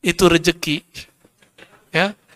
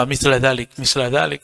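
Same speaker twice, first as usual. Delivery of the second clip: hurried dhikr; 4 semitones lower than usual. Shown as a demonstration. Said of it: "Itu mau cepat selesai itu".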